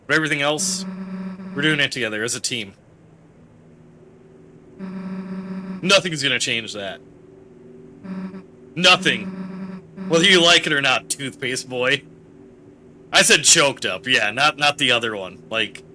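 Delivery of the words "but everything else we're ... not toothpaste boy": lightly voiced gruffly supportive friend; Susie reassuring. Susie promises Ralsei they stay a team, firmly reassuring. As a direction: promise it firmly, teasing at the end.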